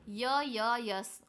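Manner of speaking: put-on a shy girl forcing out yes; stammering. (हकलाते हुए yes)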